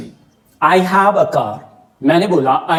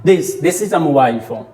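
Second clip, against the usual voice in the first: slow demo; 2 semitones lower, slower than usual. Shown as a demonstration. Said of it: "उसे आप this कहते हैं".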